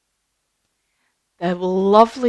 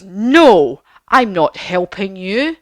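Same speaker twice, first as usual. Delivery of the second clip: wizard's refusal; 7 dB louder, slower than usual. Acted.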